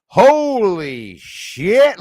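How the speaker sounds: very slow, loud, high drawl; drawn-out, not short. Shown as a demonstration. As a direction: stretch each word out long and loud. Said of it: "it's not like".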